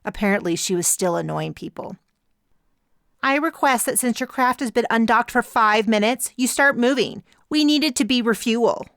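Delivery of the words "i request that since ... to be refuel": put-on higher, louder, accent slipping; irritated demand with a slipping accent; frustrated rival captain. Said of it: "her accent slipped".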